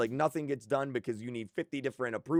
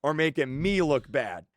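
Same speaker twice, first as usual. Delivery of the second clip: real, much louder burst of frustration; frustrated outburst; 2 semitones higher, 10 dB louder than usual. Real, not acted. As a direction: let it all spill out loud, fed up. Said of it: "If you got your star player like this".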